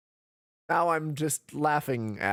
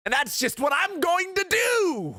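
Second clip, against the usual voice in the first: dramatic vow; 13 semitones higher than usual. Acted. Lawyer vowing to clear his friend's name, rising dramatic cry. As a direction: build to a soaring declaration.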